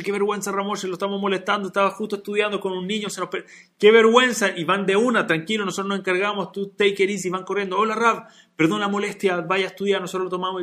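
embarrassed helpers falling over themselves; flustered apology. Acted.

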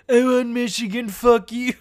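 lightly voiced bad politician impression; Trump. Host repeating the joke on themself, hammed-up Trump impression. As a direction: blurt it as a terrible president impression. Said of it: "terrible Trump impression".

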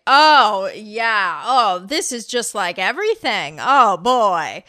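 imitated Polish accent, drawn-out exclamations; thick Polish accent. Imitating a classmate's agreement, thick Polish accent. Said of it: "had a thick accent".

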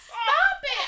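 high, loud mock protest; retold exasperation. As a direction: cry it out, fed up. Retold exasperation while helping him up.

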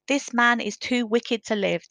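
a governor crying out his verdict, loud and slow; cried out. Acted. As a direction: cry out the sentence with slow fury. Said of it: "Then the governor cried out".

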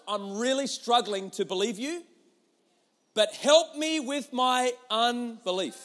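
slow, loud anguished plea; pleading father. Retold or imitated. Father begging Jesus, slow pleading cry. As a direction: beg desperately for help.

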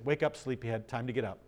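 low, soft, easygoing wake-up; gentle wake-up call. Acted. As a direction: rouse a sleeper softly, voice kept low. Voices Jesus waking the sleeping dead.

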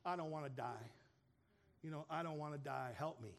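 low, understated plea to God; retold desperate prayer. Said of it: "and he's praying. He's saying".

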